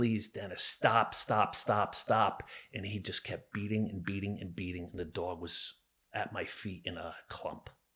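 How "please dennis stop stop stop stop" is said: desperate, drawn-out pleading tone. Retelling begging someone to stop hurting a dog: reenacting a desperate plea. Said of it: "I'm crying and I'm screaming and I'm pleading".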